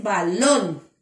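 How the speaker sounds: balón said slowly, stressing LÓN; stress on last syllable. Shown as a demonstration. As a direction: draw out balón and lean on the final O. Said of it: "ya corrigió ese error". (balón despacio, con el acento en LÓN)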